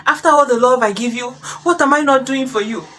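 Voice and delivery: hurt accusations climbing into a high wail; outraged wife. Acted. Wife confronting her cheating husband, outraged and rising.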